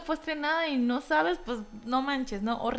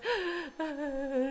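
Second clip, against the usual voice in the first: mock telenovela sob; 4 semitones higher, 7 dB quieter than usual. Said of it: "y actué como una telenovela".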